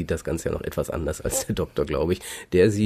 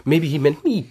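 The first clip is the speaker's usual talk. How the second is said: "me" lifted high and louder; stress on "me"; 6 semitones higher, 5 dB louder than usual. Retold or imitated. Arguing how Martha said it, stress on "me". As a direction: punch "me" as the hopeful point of the line. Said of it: "so betont".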